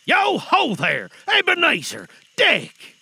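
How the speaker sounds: oily, rich, fat, jovial voice; booming jovial old master hailing his apprentices; Fezziwig. A narrator's reading. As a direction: call out loud and high, jolly and comfortable. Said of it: "in a comfortable, oily, rich, fat, jovial voice".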